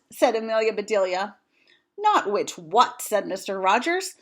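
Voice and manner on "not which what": slow exasperation. Acted. Mister Rogers exasperated, slow.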